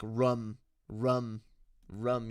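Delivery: "rum" slow, copied from a friend's odd way; odd pronunciation. Retold or imitated. Streamer teasing a friend's pronunciation, slow mimicked "rum". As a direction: say "rum" slowly, mimicking someone's weird vowel. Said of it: "He pronounces words weird".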